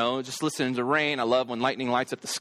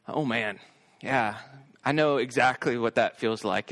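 sympathetic realization; 2 semitones lower than usual. Retold or imitated. Dad on couch remembering his own fear, understated sympathy. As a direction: let the empathy sink in.

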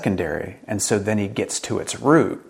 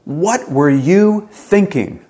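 loud, high, drawn-out incredulous yell; barked angry question; 9 semitones higher, 8 dB louder, much slower than usual. Acted. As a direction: stretch it out slowly in angry disbelief. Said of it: "these questions that we bark out".

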